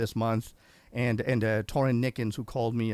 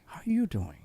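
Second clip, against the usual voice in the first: whispered; 4 semitones higher than usual. Real, not acted. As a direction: lean in and whisper it. Host asks guest intimately.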